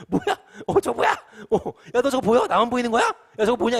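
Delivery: high, loud, hammed-up panic; panicked screaming. Disciples asking each other about the shape, acted panic. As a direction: cry out in alarm at what you see. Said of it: "가장 첫 번째 반응 뭐예요? 비명이겠죠".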